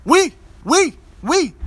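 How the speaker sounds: put-on very high, loud squeaky little-kid "wee"; a tiny boy announcing he peed; toddler voice. Dad imitating his naked son announcing his pee, very high toddler squeal. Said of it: "he was saying".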